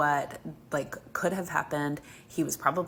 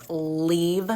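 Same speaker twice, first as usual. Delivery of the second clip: louder, hard command; yelling; 6 dB louder than usual. Retold or imitated. Mom yells at the stranger by her kids to leave, loud command. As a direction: order him off, loud and final. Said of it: "I'm, like, yelling it".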